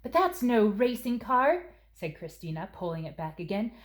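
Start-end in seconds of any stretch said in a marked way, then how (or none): 0.0-1.7 put-on high-pitched insistent child; child protesting. Christina telling her mother it's not a car, high-pitched. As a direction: refuse to let it go.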